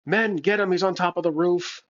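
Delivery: mock order to the henchmen; villain giving orders. Villain alerts his men to the intruder, lightly acted order. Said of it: "Satoris would probably be like".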